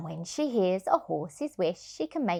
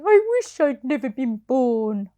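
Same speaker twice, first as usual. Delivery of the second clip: sighing; 4 semitones higher, 4 dB louder than usual. Acted. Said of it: "Sugar Lump sighed".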